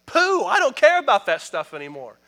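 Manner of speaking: loud, high, rising fervour; impassioned paraphrase of Paul. Retold or imitated. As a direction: preach Paul's words with mounting heat. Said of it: "He said".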